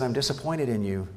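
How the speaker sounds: softly retold, calm rebuke; understated, quiet disappointment. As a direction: say it gently, without raising your voice. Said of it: "I very calmly just said".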